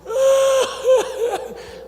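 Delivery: high weeping laughter; laugh-cry of relief; husband laughing and crying with joy; sobbing laugh. Retold or imitated. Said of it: "ele começou assim".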